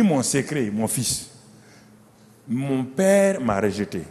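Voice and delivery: low, soft fatherly voice to his son; old David, tender. Acted. Old David softly urging his son Salomon to succeed him. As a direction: hush it like a dying king confiding.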